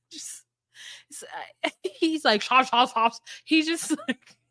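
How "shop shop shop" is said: imitated chomping noises; mock noisy eating. Podcast host mimicking a man eating, mock chomping. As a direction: mimic someone chomping through food. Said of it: "I can't stand him eating".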